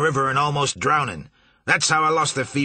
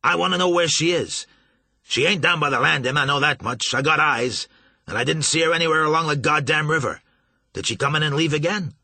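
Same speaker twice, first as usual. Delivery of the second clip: higher, rising tirade; angry rant; 6 semitones higher than usual. Acted. Captain ranting at the agent about his steamer. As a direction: berate him, building to a roar.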